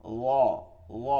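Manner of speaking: "ল" as a soft, heavy, rounded zwa; thick rounded "ল"; soft but thick. Shown as a demonstration. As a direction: fill the mouth on "ল", keeping it soft. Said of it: "মোটা হবে".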